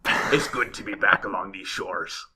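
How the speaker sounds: slow, growly sea-dog talk; pirate voice. Pretend. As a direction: play an old sailor back from sea. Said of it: "I guess I'm not going pirate anymore".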